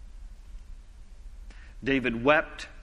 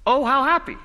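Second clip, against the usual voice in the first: higher, bright exclaim of Oh, how happy; joyful exclamation; 8 semitones higher, 4 dB louder than usual. Shown as a demonstration. Preacher to congregation, repeating the translation with joyful lift. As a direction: let the joy lift it up. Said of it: "it literally translates".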